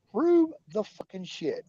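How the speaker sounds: "Prove" drawn out with a rising pitch; slow, heated repeat of the demand. Real, not acted. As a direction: demand it again, harder.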